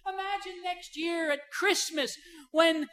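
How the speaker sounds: a hint of a mother-in-law making a sad story worse; imitating mother-in-law. Mother-in-law dramatizing a sad film, mock mournful voice. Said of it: "she would say".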